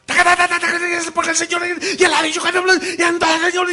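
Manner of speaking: high, loud rapid-fire preaching; machine-gun preacher. Retold or imitated. Mocking a preacher who sounds like a machine gun, shouting fast. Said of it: "alguien que parece metralladora".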